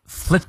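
flit with a short crisp i fully pronounced. Shown as a demonstration. Teacher stressing the short vowel in flit. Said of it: "flit短a念到位".

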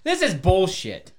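playful fake fury; mock pissed. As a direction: drag it out like you're fed up. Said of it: "I'm fucking pissed now".

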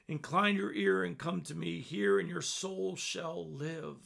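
measured, solemn reading of scripture. Acted. Preacher reading Isaiah 55 to podcast listeners, solemn. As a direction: read it as a heartfelt invitation.

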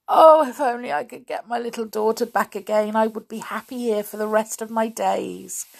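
mildly anguished wish, rising at the start; wistful longing. Acted. Lonely king wishing for his daughter back, wistful longing.

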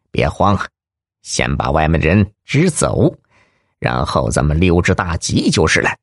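a gruff crook whispering to his partner; low bandit voice. Acted. Tall bandit calming partner.

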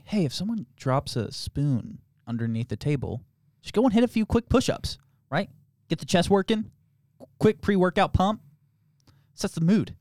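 lightly voiced frat boy, lifting in pitch. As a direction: imitate a frat boy's casual tips in short bursts. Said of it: "it's, like, really frat boy shit".

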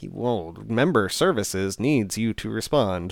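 lightly imitated automated phone voice, slow; slow, stilted mock recorded message; robot call. Patient recounting the insurance company's robot call, lightly imitated robotic delivery. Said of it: "it was like a robot call".

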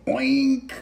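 high-pitched oink; pig oink. Acted. Storyteller voicing the oink blown out of the pig, high oink.

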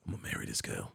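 breathy, awed aside; whisper. Retold or imitated. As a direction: whisper it in awe. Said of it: "And then I was like".

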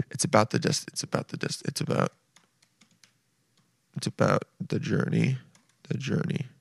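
hushed mockery of a wise saying; mock mystical whisper. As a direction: breathe the cliché like a guru. Mocking the cliché saying.

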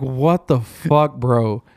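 slow, stretched-out incredulity; retold amazement, drawn out; stunned disbelief. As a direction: drag the words out, dropping on BRO. Acted stunned reaction, retold.

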